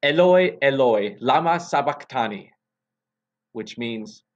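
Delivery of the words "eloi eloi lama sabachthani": loud cry. Acted. Jesus on the cross crying to God, loud anguished cry. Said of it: "cried out in a loud voice".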